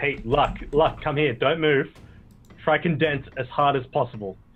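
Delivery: calling out loudly. A player's character calls over to a companion named luck, shouting to luck. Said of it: "I have to shout to Luck".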